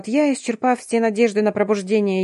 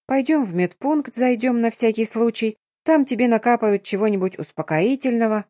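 cooing; 3 semitones higher than usual. Acted. Darina leading the shaken girl to the infirmary, gentle coo. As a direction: soothe her like a frightened child. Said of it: "ласково заворковав".

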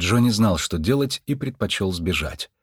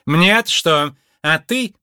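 громкий резкий злой вопрос; огрызнуться; злость; 7 semitones higher, 4 dB louder, slower than usual. A narrator's reading. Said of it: "взъярилась". (Мардж злобно огрызается на Лунветра)

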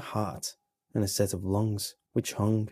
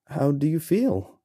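eager question; 6 semitones higher, 5 dB louder than usual. Acted. Narrator questions creature eagerly.

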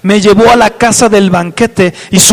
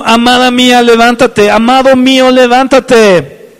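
God calling; 4 semitones higher, 5 dB louder than usual. Retold or imitated. Preacher voicing God calling the beloved, lightly acted. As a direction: voice God's tender summons to rise. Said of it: "Dios te está diciendo".

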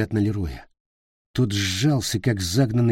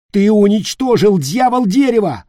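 high, loud outraged shout; furious yell; 12 semitones higher, 8 dB louder than usual. Acted. Peter raging at Leroy, loud and high. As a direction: hurl the blame at him. Peter rages before stabbing.

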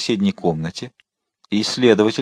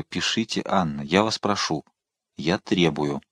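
soft, lowered, insistent plea; quietly; 4 semitones lower, 6 dB quieter, slower than usual. A narrator's reading. Cardinal pressing the queen to write, quiet insistence. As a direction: drop the volume and press the point. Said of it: "Затем прибавил тихо".

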